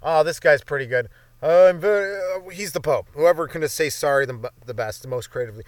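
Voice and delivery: hammed-up pompous papal announcement; mock Pope voice. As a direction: play the Pope picking the best apologizer. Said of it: "They're like".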